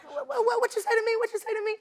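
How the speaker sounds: high mocking voice of an angry passenger; mock aggressive man. Narrating a fight on a flight, high mock challenge. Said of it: "But he's like".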